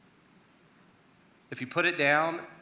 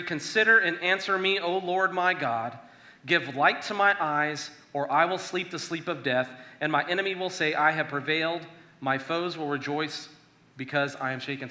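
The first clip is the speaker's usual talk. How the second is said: earnest, louder psalm reading; scripture reading; 3 dB louder than usual. Acted. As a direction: read the lament like a plea to God. Reads psalm verses aloud.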